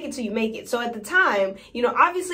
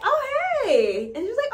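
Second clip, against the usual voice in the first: high excited fangirl; 13 semitones higher than usual. Retold or imitated. Excited celebrity encounter retold.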